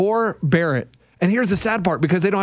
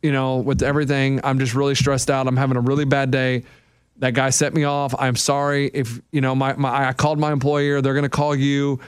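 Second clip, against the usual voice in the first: guilty apology; 6 semitones lower than usual. Retold or imitated. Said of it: "he was just feeling so guilty".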